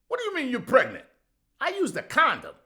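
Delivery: high, loud panicked yelling; panicked shout. Acted. Boyfriend yelling at pregnant girlfriend in panic. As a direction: blurt it out in shock.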